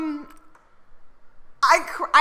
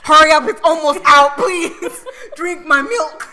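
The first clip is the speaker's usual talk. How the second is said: urgent plea; 9 dB louder, slower than usual. Pretend. Voicing idols urging milk.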